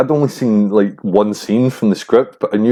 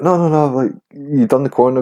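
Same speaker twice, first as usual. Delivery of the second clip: high-pitched mimicked director waving off doubts; quick string of no's, pitched up to reassure; raised voice, playing the persuader; imitated reassurance; 6 semitones higher than usual. Retells director brushing off his objection.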